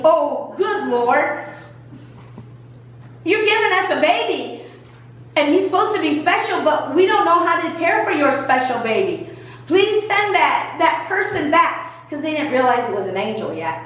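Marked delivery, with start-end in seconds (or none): 0.1-11.9 earnest prayer. Acted. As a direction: stretch "good Lord" out like a real prayer on his knees.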